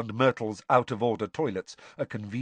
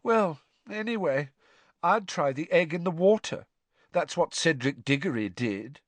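put-on high, airy ghost girl; high girlish ghost voice; Myrtle's ghostly voice; 6 semitones higher than usual. A narrator's reading. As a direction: speak like a glum schoolgirl ghost. Myrtle advises.

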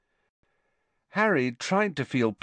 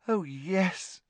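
high, soft happy assent; 10 semitones higher, 5 dB quieter than usual. A narrator's reading. Luna answering her party date, softly happy. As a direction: agree contentedly in a high, soft voice. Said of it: "she said happily".

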